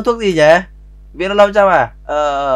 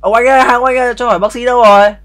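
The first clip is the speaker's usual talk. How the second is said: calling out; 5 semitones higher, 3 dB louder than usual. Pretend. Calling out to stranger for doctor.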